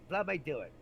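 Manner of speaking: put-on loud, high Kentucky-accented drunk; imitated drunken Kentucky insistence. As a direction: butt in eagerly with a Kentucky twang. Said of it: "had the thickest accent".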